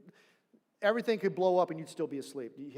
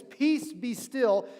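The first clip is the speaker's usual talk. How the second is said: commanding rebuke; 3 semitones higher, 5 dB louder, much slower than usual. Shown as a demonstration. Jesus rebuking the wind and sea, commanding. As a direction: speak it as Jesus silencing the wind. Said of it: "It's crazy storm, and he says".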